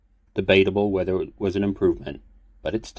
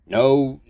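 groaning; 8 semitones higher, 7 dB louder than usual. Acted. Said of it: "Xander groaned".

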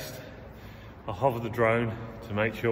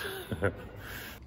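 nervous little laugh; 8 dB quieter than usual. Real, not acted. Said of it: "I am a little bit nervous".

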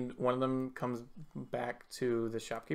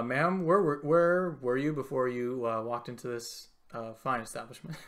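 officer voice. Acted. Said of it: "he walks up to you and says".

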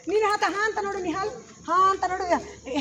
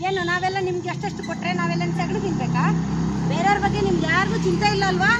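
acted indignation, building louder; rehearsed outraged complaint, getting louder; indignant scolding; 5 dB louder than usual. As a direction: scold them for forgetting everyone else. Director demonstrates an indignant scolding line.

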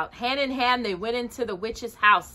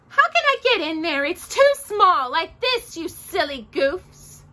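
mocking witch; 9 semitones higher than usual. Witch scolding Gretel at the oven, scornful. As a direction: sneer at the foolish girl. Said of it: "said the witch".

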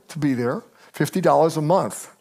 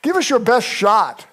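a cocky, defiant dare; a touch of swagger; 6 semitones higher than usual. Acted. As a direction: taunt the king, unbothered. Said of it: "I'm not saying they were quite that cocky".

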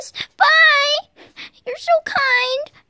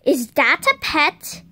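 suspicious mom voice; 11 semitones lower than usual. Pretend. Mom voice spots hidden pet.

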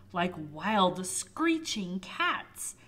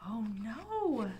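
mock gasp. Reader reacts to danger.

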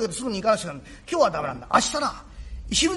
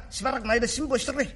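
contrite father. Acted. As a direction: say sorry to your boy, close to tears. Father apologising to son.

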